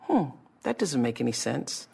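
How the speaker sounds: soft, puzzled musing; subtle inner doubt. Acted. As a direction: quietly question it to yourself. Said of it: "it's that kind of subtle".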